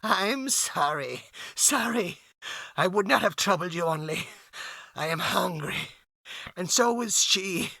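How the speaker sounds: a starving man apologizing; hopeless and pathetic. Acted. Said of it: "sounding extremely hopeless and pathetic".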